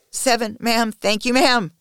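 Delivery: high, loud, pained thanks; trembling shout. Acted. Submissive thanking a domme after a stroke, trembling shout. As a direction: shout it out through pain and need. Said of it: "I shout, my voice trembling".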